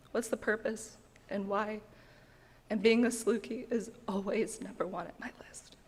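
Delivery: whispering through tears; teary. Real, not acted. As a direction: near tears, voice almost gone. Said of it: "sorry, teary, crying".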